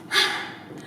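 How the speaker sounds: short unvoiced huff of breath; acted sigh. Storyteller after the children mock Anansi, an acted sigh. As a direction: let out an audible sigh.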